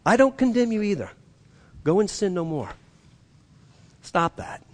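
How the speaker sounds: soft, tender correction; loving. Acted. Jesus to the woman caught in adultery, loving. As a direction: correct gently, with love. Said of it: "He does it with love".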